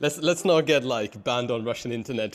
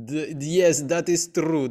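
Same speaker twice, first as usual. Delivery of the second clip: mock Russian accent; 3 semitones higher, much slower than usual. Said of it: "I get a Russian accent at the end".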